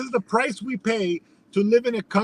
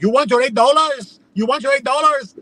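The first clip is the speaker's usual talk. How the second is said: higher-pitched mock outrage; worked-up retort; 5 semitones higher than usual. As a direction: imitate an indignant clerk getting worked up. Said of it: "she starts freaking out".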